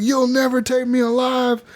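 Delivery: high, drawn-out outlaw cry; hammed-up taunt over the shoulder while fleeing; mock defiance. Drunk outlaw running from the law, mock defiant cry. Retold taunt to chasing lawman.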